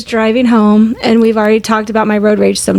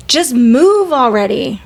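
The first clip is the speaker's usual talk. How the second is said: slow, mildly irritated retelling; exasperated road rage; 2 semitones higher, slower than usual. Retold or imitated. Mom urging the driver ahead, mildly exasperated. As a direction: act out impatience with a slow driver. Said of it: "Like, just very angry".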